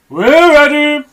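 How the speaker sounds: birds' eager reply. Acted. Birds answer Mugglewump, high and eager. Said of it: "said the birds".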